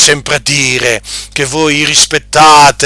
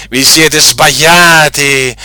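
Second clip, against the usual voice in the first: mocking laugh; slower than usual. Real, not acted. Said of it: "repeated with a different delivery".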